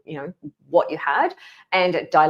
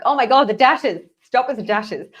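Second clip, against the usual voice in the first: raised, louder exasperated outburst; mock exasperation; 6 semitones higher, 6 dB louder than usual. User telling ChatGPT to stop the dashes, exasperated. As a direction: scold the chatbot in mock despair. Acts out complaint to chatbot about dashes.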